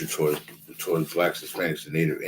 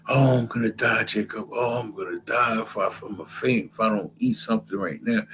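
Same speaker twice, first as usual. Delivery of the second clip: whiny starving Esau; 4 semitones higher than usual. Retold or imitated. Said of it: "I'm paraphrasing".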